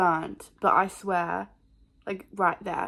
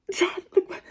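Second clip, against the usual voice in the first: higher, louder mock panic; panicked whine; 10 semitones higher, 4 dB louder than usual. Daughter pleading with dad about the knock, panicked.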